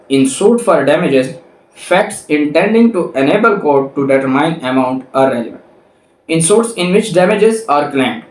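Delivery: reading the law aloud slowly, word by word; slow statute reading. Acted. Lecturer reading the statute to law students, slow and deliberate. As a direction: dictate each clause so students can follow. Reads next article text slowly.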